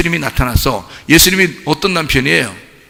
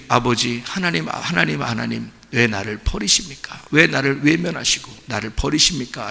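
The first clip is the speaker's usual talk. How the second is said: a hint of anguished, hushed pleading to the Father; anguished cry; 2 semitones lower, 6 dB quieter than usual. Jesus on the cross calling to the Father, hushed anguish. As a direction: softly voice Jesus's forsaken cry. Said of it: "예수님이".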